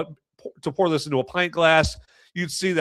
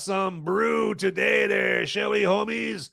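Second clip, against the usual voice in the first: excited intro; 6 semitones higher than usual. Acted. Show intro shouted.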